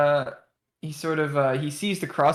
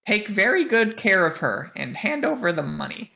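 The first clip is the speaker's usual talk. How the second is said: a hint of a merchant character, pitched up; lightly voiced shopkeeper; 5 semitones higher than usual. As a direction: lightly play a seller handing over a prized item. Voices the crossbow seller.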